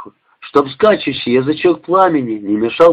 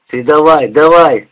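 dismissive brush-off; 4 dB louder than usual. Acted. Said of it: "отмахнулся от Миши Женька".

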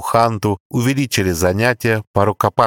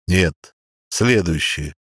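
archangel voice; slower than usual. A narrator's reading. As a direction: pronounce judgment slowly. Archangel rejects candidate. (строгий голос архангела)

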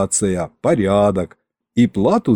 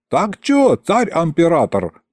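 high-pitched call; corrected crowd shout; 6 semitones higher than usual. A narrator's reading. First heckler addresses the tsar anew, calling out. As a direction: holler it up from the crowd. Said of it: "поправился первый голос".

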